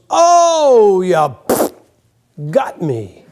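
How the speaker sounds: hammed-up Western death, fading out; mock dying cowboy. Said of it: "and the guy goes".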